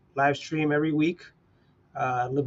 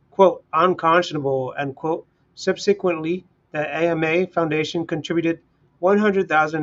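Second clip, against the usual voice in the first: news article read; 2 semitones higher than usual. Acted. Streamer reading a news article aloud to his live chat, in a news-read style. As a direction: read it out like a news anchor to your listeners.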